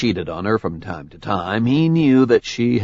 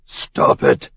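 feral snarling. Acted. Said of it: "he snarled".

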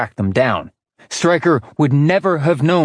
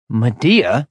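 stunned echo. A narrator's reading. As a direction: repeat the name "Medea" as if hit by it. Orion stunned by news.

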